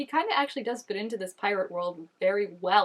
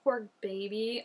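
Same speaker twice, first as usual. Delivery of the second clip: pitying; 6 dB quieter than usual. Real, not acted. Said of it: "I'm saying poor baby like".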